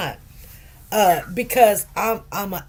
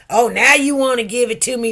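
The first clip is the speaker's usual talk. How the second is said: sarcastic, a bit louder, "now" leaned on; mild mock indignation; 4 semitones higher, 6 dB louder, faster than usual. Angry patient scolding the nurse in front of everyone, mild mock sarcasm. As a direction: toss it back with sarcasm. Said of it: "He's mad".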